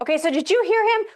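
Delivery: high laughing disbelief; incredulous laugh. Real, not acted. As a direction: laugh through the question. Reacting to a clip.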